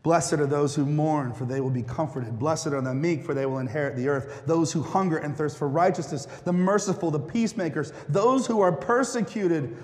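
measured, solemn reading of the Beatitudes; scripture reading. Acted. Reads the Beatitudes aloud.

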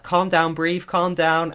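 retelling the crew shouting at an angry contestant; mock shout. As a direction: yell at him to calm down, half-acted. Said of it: "And they're like".

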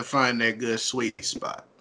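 a touch of smooth R&B crooner, spoken; late-night cupcaking voice. Real, not acted. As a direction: ease into a soft late-night R&B voice. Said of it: "he's got that R and B voice".

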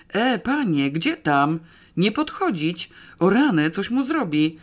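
loud, high crowd warning; alarmed shouting. Acted. (krzyk ostrzeżenia z tłumu)

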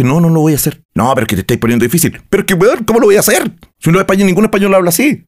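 indignant, high-pitched retold objection; retold exasperated protest. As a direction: argue back in disbelief as you retell it. Retold row with sound engineer.

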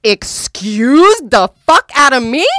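loud, high, furious yell at him. Retold or imitated. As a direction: scream at him, outraged. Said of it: "And so I started going off".

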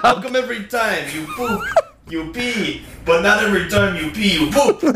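puzzled question in a mock Russian accent. Shown as a demonstration. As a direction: put on a playful Russian accent. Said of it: "I'm gonna do a Russian accent".

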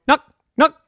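put-on high, loud, stubborn kid voice; little sister. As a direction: keep nagging as the little sister. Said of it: "Her little sister would come up".

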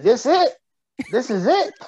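mock disbelief, voice up high and loud; incredulous. Scoffing at a riding buddy, mock disbelief.

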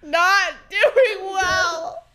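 slow, laughing through the words; breaking into giggles mid-line. Real, not acted. Laughing reply to greeting.

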